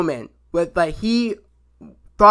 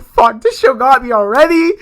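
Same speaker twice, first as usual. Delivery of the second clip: loud, high burst of feeling; excited outburst; 7 semitones higher, 8 dB louder than usual. Real, not acted. Fan blurting to viewers about the episode, loud and high. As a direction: blurt it out, overwhelmed by the show.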